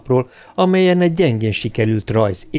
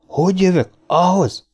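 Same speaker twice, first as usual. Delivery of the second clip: ringing, firm retort; 8 semitones higher than usual. Acted. Bogert firmly echoes Lanning's challenge: ringing, higher retort. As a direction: throw his words back at him. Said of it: "Bogert hangja határozottan csengett".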